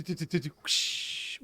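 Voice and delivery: quick run of noises into a whoosh; imitated whoosh. Game master miming what those are called, imitated whoosh. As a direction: sound it out with a long slow whoosh. Imitating a forgotten object's sound.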